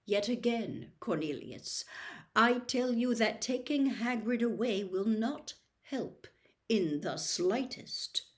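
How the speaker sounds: cold controlled warning. Acted. Dumbledore quiet intensity.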